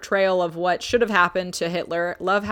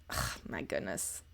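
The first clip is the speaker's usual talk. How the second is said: groan; 17 dB quieter than usual. Real, not acted. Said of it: "embarrassed groan".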